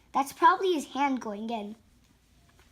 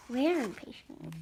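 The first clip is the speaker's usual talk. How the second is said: soft repeat; 5 semitones lower, 11 dB quieter, faster than usual. A narrator's reading. Repeats the words softly.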